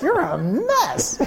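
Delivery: high, drawn-out teasing through laughter; slow, laughing mock verdict; imitated laughing. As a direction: imitate a friend cracking up at you. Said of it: "laughing her head off at me".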